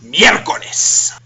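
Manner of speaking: mild mock yell of "Miércoles!", slow and drawn out, rising at the end; imitating mom's Spanish curse, mildly. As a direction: stretch "Miércoles" like an exasperated mom, half-hearted. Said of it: "Mom yelled".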